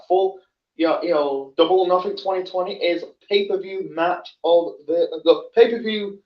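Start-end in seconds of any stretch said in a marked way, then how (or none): 1.6-6.2 stumbling over words; tripping on the words, restarting; stuttering. Real, not acted. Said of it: "sorry about my stuttering".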